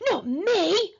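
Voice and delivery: put-on high boyish yell; screamed refusal. A narrator's reading. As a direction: refuse in a tantrum. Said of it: "screamed Henry".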